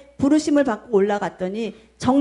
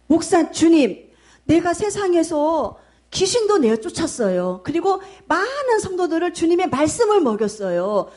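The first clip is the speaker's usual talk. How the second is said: protesting to God; 5 semitones higher than usual. Retold or imitated. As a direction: defend himself before the Lord, voice up high. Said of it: "하나님께 항변을 하니까는". (높은 목소리로 하소연하듯 항변)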